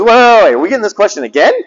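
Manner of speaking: fast, rising disbelief at the repeated question; mock a teacher fed up with being asked again; incredulous exasperation. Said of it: "he goes".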